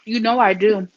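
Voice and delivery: talking while chewing; mouth full. Real, not acted. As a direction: speak through a mouthful. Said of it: "Let me finish chewing my".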